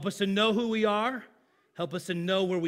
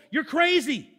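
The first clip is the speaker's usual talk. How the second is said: mock scoffing; 7 semitones higher, 4 dB louder than usual. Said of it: "they're gonna like".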